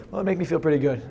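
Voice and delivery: mildly unenthused imitated answer. Coach imitating a partner who isn't in it, mildly unenthused. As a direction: answer without really being in it. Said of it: "They're not smiling. They're not in it".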